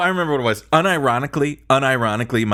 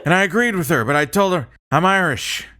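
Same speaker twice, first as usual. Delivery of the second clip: put-on higher-pitched rambling old politician; put-on old man's voice, wandering through a story; Sleepy Biden; 7 semitones higher than usual. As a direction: reminisce like a doddery elder statesman. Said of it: "as, uh, Sleepy Biden".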